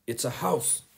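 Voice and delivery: curt, irritated correction; snappish. Acted. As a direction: dismiss the question sharply. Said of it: "she snapped".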